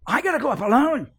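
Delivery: preacher voicing God in full cry; God's command. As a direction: thunder it out as God calling from the mountain. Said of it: "God said".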